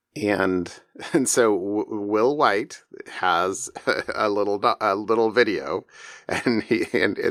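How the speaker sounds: words broken by laughter. Telling listeners about a Kickstarter video, laughing while talking. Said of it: "I'm laughing about this already".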